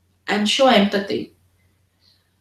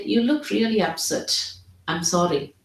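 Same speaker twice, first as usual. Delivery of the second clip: gentle, quieter sympathy to an upset patient; soft empathic apology; 5 dB quieter than usual. Shown as a demonstration. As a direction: say it softly, with real concern. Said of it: "I would say".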